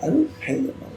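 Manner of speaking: high-pitched farmer voice throughout; fussy old farmer. Acted. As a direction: talk like a doting bird-keeper. GM holds farmer voice answering players.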